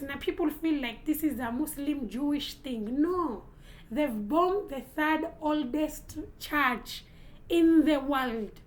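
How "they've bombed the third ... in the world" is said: slow, heavy stress on bombed, louder at the end; slow emphatic outrage. Real, not acted. Vlogger condemning the bombing of an old church, slow and emphatic. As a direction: spell out every word like an indictment.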